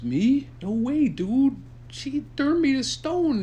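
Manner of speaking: high-pitched panicky refusal; high scared dude. Acted. Pizza the Hut refuses the cave, high and panicky. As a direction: squeal it like a scared slacker.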